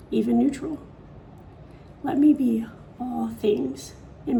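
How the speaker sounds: measured poem reading with long pauses; poetry reading. Acted. Author reads own poetry for viewers, measured recital. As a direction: read it as verse, pausing after each phrase.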